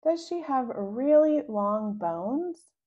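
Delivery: eager questions. Acted. Rascal eagerly quizzing siblings.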